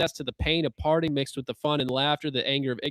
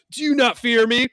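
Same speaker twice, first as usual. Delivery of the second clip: threatening god; 9 semitones higher, 7 dB louder than usual. Retold or imitated.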